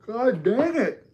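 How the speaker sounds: high, loud and slow exasperated groan; frustrated outburst. Real, not acted. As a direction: let it out, fed up, dragging each word. Streamer frustrated at chat prank.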